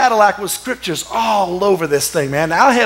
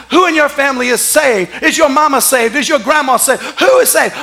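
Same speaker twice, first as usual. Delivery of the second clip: raised-pitch preacher's questioning; insistent pulpit delivery; preaching; 4 semitones higher than usual. Acted. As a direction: press each question like a preacher. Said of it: "preaching like I'm preaching a message".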